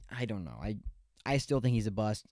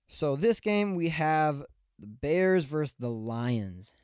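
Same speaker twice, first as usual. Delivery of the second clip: breathless, slowed down; winded between words; out of breath; 4 semitones higher, slower than usual. Real, not acted. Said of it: "Let me catch my breath real quick".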